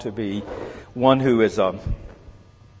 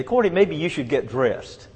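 lightly voiced gentle wife, higher pitch; 4 semitones higher than usual. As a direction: imitate a wife's gentle nudge. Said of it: "she'll say very gently".

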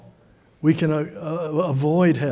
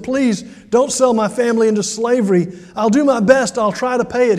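a pleading, slightly raised voice; pleading servant; 5 semitones higher, 4 dB louder than usual. Acted. Servant begging his master for mercy, pleading. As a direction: beg the master not to sell your family.

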